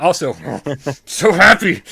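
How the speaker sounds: high, loud, hammed-up blubbering; laughing, over-the-top happy sobs; mock happy crying. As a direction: wail it as if weeping with joy. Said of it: "I'm actually crying right now".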